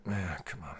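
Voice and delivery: usual speaking voice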